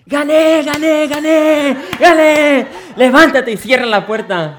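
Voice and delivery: very high, loud gloating cries; triumphant shout. Acted. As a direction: crow with victory, laughing.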